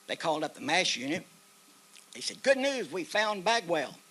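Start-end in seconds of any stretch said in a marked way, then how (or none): 2.4-4.0 higher, louder, drawn-out good news; retold announcement. Base calls the mash unit, retold excited announcement. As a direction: call it in slowly, voice raised.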